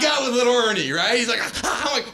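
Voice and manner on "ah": imitated dog panting for breath; asthmatic pug wheeze. Owner imitating his little pug, wheezing as if asthmatic. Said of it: "sounds like he has asthma".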